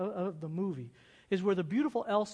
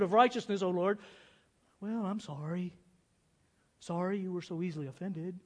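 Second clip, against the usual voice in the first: half-hearted prayer; 4 dB louder than usual. Pretend. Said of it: "It goes a little like this".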